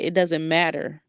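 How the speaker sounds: lightly imitated child, measured and firm; grandson standing his ground. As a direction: quote a little boy calmly holding firm. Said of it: "This little boy said".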